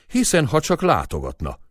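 bitter cry. A narrator's reading. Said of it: "kiáltott föl keserűen".

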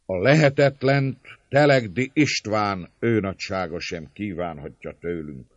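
high, loud, emphatic bursts; declamatory reply. A narrator's reading. Servant leader excusing surrender before everyone, declaiming. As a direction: declare your loyalty while giving in.

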